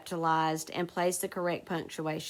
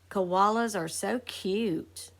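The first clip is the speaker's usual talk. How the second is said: exclamatory reading; slower than usual. Shown as a demonstration. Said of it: "shows strong feeling".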